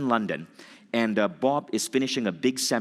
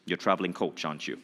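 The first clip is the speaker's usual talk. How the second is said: stern voice; 3 semitones lower than usual. Retold or imitated. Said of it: "intense voice".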